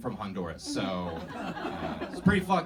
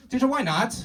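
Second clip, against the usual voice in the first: loud, very high student outburst in a fake Asian accent; bad Asian accent; 13 semitones higher, 11 dB louder than usual. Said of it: "I'm just really bad at accents".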